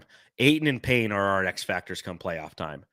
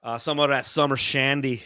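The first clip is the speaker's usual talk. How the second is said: put-on Minnesota accent, higher and louder; 5 semitones higher, 5 dB louder than usual. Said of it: "I don't know if that's a good Minnesota accent or not".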